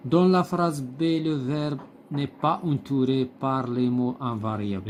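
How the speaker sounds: slow, deliberate read-aloud of the text; slow textbook reading. Acted. Teacher reading the textbook passage to pupils, slow and deliberate. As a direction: read each phrase slowly, like dictation to the class.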